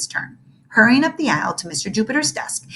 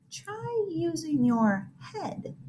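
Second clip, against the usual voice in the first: calm suggestion; 7 semitones higher, 10 dB quieter, much slower than usual. Acted. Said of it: "suggested Mister Jupiter".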